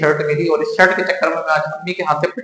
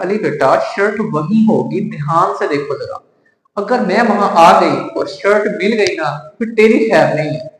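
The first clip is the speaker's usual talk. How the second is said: lightly voiced scolding mother, a little louder on the threat; mother's angry scolding; 4 dB louder than usual. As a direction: imitate mom warning her son. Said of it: "अम्मी को double गुस्सा आया". (बेटे को डांटती अम्मी की हल्की नकल)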